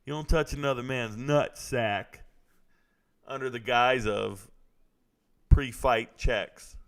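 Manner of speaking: slow, deliberate, word by word; emphatic lecturing. Real, not acted. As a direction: spell out the rule slowly. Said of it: "Let me tell you one thing".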